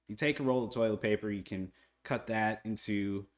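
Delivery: talking while chewing gum; words round a wad of gum. Real, not acted. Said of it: "Sorry, I have gum in my mouth".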